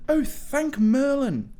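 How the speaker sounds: loud, slow, high-pitched relief; high relieved Harry. Acted. Harry, told he will die, loudly thanks Merlin. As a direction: cry it out high like a relieved boy.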